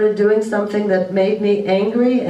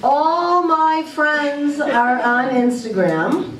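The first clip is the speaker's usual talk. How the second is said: put-on whining kid; 4 semitones higher, much slower than usual. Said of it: "when your kids say".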